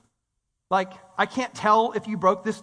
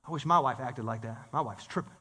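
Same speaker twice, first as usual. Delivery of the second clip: low, soft grumble under the breath; envious mutter; 11 semitones lower, 7 dB quieter than usual. Retold or imitated. Jealous man eyeing a neighbor's wife, low grumble.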